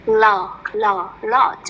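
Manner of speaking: "lot" with the initial L sounded separately first; clear L sound. Shown as a demonstration. Teacher corrects the student's L, careful L in "lot". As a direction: isolate the L, then say "lot". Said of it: "Nhớ để ý âm L này".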